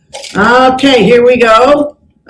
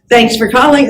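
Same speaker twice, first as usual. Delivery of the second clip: phone greeting demo. Shown as a demonstration.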